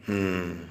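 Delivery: a soft low closed-mouth hmm, falling; thoughtful hmm. Acted. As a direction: hum hmm softly as if weighing the boy up. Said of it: "कहती है".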